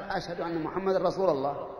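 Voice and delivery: "رسول" ending in an -a vowel, rasūla; muezzin's grammatical slip. Shown as a demonstration. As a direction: say "رسول الله" as rasūla-llāh. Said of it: "نصحح أذان إخواننا الذين يلحنون هذا اللحن". (نطق "رسول" بفتح اللام لحنًا)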